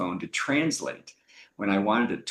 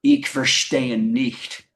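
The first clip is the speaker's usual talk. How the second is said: slow, deadpan German reply; confident German; 4 dB louder, much slower than usual. Retold or imitated. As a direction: say it slowly in mock-confident German. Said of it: "so I confidently looked her in the eye".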